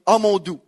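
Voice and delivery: "doux" as in Quebec, for Dieu. Shown as a demonstration. Pastor shows congregation his harmless oath, voiced loud. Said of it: "c'est comme ça que je dis".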